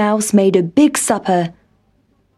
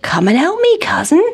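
calling; 6 semitones higher, faster than usual. A narrator's reading. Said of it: "called Country Mouse".

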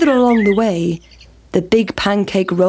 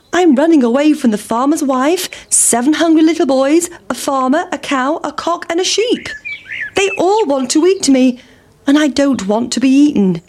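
higher, breathless and anxious; a small cake listing its chasers in a rush; fleeing pancake; 6 semitones higher than usual. Acted. Pancake tells the pig who chases it, higher and anxious.

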